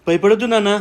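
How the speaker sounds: high, soothing parent voice; anxious-to-soothe, lifted tone; reassuring. Acted. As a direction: comfort a frightened child. Father reassures frightened daughter.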